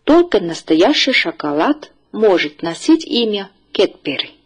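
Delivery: careful teacher's model reading, phrase by phrase; read-after-me model. Shown as a demonstration. Teacher asks the class to read after her, clear model reading. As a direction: read out each phrase clearly for learners to repeat. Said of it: "请大家跟我读".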